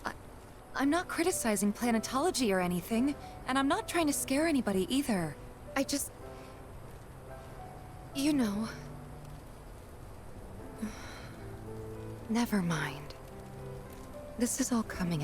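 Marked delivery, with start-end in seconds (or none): 0.0-8.7 quick, awkward backpedalling, trailing into hesitation. Acted. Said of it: "Did I sound as awkward as I felt?". 8.7-12.2 long, soft sigh; resigned sigh. Acted. Giving up on awkward speech.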